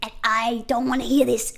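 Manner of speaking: slow, drawn-out put-on American dad; lightly voiced annoyed father; dad defending son's hair, slow and mock-stern; pissed-off dad. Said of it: "The dad's getting pissed off".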